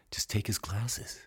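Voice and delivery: slow whispered aside; conspiratorial whisper. Real, not acted. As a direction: whisper it slowly like a sneaky secret. Sly aside about taking glasses.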